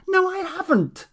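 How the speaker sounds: high, loud scream of no; furious shrieking refusal. Acted. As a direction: scream it at him. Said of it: "she screamed".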